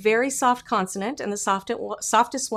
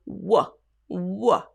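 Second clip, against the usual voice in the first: whiny cry; 2 semitones lower than usual. Shown as a demonstration. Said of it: "causes your vocal muscle to".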